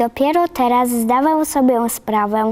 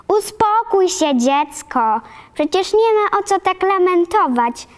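high, firm scolding; stern calming; 7 semitones higher than usual. Acted. Marilla to the sobbing girl, high and stern. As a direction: hush the crying child sternly. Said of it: "odezwała się".

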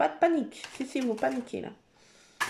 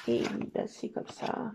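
whispered resignation; 3 semitones lower, 6 dB quieter than usual. Real, not acted. Resigned aside.

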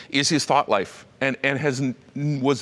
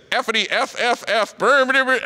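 imitating gamer noises; 8 semitones higher than usual. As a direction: sputter out the headset chatter like a kid gaming. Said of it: "all of a sudden I hear this".

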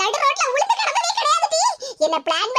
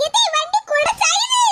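higher, laughing yelp of alarm; alarmed cry; 5 semitones higher than usual. Acted. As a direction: yelp as the scooter tips. Scooter tipping over.

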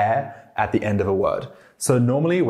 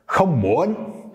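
"không muốn" started lower, slowly dipping then rising; lower-start soft sắc; 7 semitones higher than usual. Shown as a demonstration. Teacher contrasting where the tone starts, slow low-start rise. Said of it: "It really depends, I think, on where you start".

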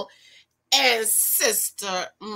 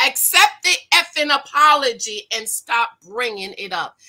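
mock cussing wife; 5 dB louder than usual. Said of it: "why you got to cuss at your husband".

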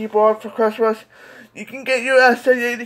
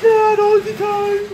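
whiny yell; 9 semitones higher, slower than usual. Pretend. Toy kid blames dad for crying, high whiny yell.

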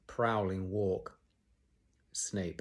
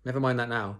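breathless; 3 semitones higher, 4 dB louder, faster than usual. Acted. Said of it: "said Harry breathless, breathlessly".

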